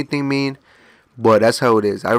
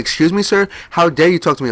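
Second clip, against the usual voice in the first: higher-pitched mock indignation; offended outrage; 6 semitones higher, 4 dB louder than usual. Older man mad at perceived attitude, mimicked indignation. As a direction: imitate a man taking great offense. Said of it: "he got very mad".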